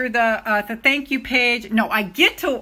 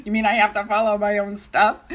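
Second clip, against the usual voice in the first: laughing realization; 3 dB louder than usual. Retold or imitated. Retells realizing own advice.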